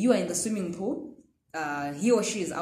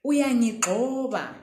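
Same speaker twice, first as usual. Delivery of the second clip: annoyed reaction. Acted. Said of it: "natural reaction would be".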